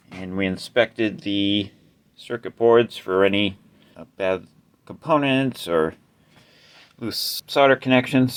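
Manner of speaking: winded, breathing hard between words. Real, not acted. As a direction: talk while catching your breath. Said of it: "Sorry, I'm a little out of breath here".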